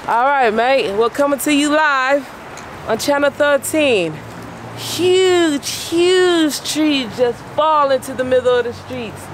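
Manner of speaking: loud, high British newsman; hammed-up British live report; playful fake British news voice; mock British reporter accent. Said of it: "That's not my right accent, huh?".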